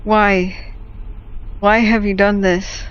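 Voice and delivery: a hint of an outraged father, the first line slow; voicing the dad bird. Dad bird scolding his chick after she hits him, mock indignant. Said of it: "He looks down at it like".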